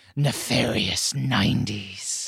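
creepy, horrifying put-on spooky voice. Host thanks the guests and announces their return next week, horrifying spooky voice. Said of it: "that was a horrifying voice".

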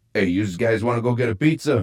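put-on Trenton New Jersey accent. A machine showing off its regional voice impersonations, in a Southwest Trenton, New Jersey accent. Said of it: "Here's Southwest Trenton, New Jersey".

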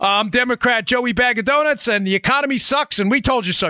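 high, sarcastic political campaign-ad voice. Parodying a candidate's campaign ad while arguing election tactics: sarcastic mock campaign ad. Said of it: "I'm being a little sarcastic".

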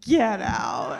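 incredulous exclamation in sheer disbelief. Retelling how Buffy answers Dracula: imitating Buffy. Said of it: "in a very Buffy fashion".

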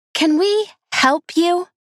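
very high, loud, slow, menacing, "help" stressed. Reading a story aloud, a teenage girl speaks to another girl: loud, threatening, stressing 'help'. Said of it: "A girl's voice said loudly, the help emphasized so as to seem more like a threat".

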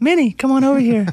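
very high, loud, sultry, seductive mouse voice. Recalling an earlier bit, doing a sexy Mickey voice. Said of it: "I think it was Sexy Mickey I was doing".

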